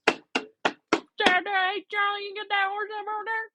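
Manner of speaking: put-on very high, garbled country accent. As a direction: mimic an unintelligible South Carolina country caller. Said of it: "What is this accent?".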